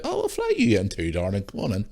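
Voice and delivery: a smarmy, cooing invitation; mock sweet-talk. Mocking the PM flying his fancy bit in, cooing mock invitation.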